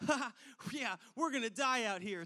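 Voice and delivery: kidding around, not believing it; joking. Retold or imitated. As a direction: joke it off with a quick ha. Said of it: "it just turns from".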